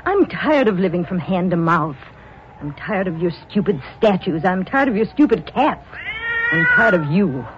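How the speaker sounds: fed-up wife listing grievances; bitter, scornful outburst; exasperated. Acted. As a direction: spit out each complaint. Wife rejects husband, quarrel.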